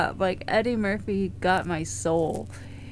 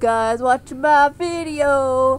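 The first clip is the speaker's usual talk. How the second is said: bee voice; 3 semitones higher, 7 dB louder than usual. Pretend. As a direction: pop in as a cheeky bee scolding the viewers. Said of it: "I'm a bee!".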